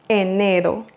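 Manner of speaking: enero mit Betonung auf dem zweiten E, R einfach getippt; Spanish pronunciation demo. Shown as a demonstration. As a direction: say enero with a single tapped R. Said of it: "n'oubliez pas d'accentuer sur le deuxième E".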